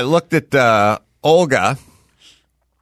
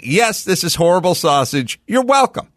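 high, breezy mock Olga; imitating Olga; 4 semitones higher than usual. Teller imitating Olga shrugging off bad sausage, high and breezy. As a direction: toss it off like it's nothing. Imitating Olga's blunt reply.

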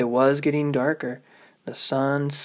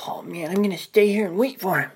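put-on excited little girl; 5 semitones higher, faster than usual. Ruby eager to wait.

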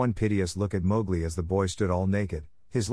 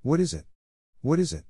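sobbing; 6 semitones higher than usual. A narrator's reading. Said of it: "caught his breath and sobbed".

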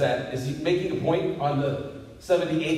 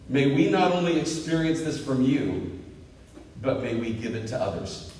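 prayer. Real, not acted. Pastor closing the sermon in prayer, reverent and settling.

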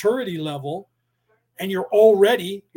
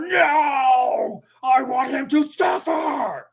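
put-on half-shouted child-god tantrum, higher; a petulant god yelling no at Moses; mock angry shout, raised pitch; retold angry scream; 6 semitones higher, much slower than usual. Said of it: "God screamed at him in anger".

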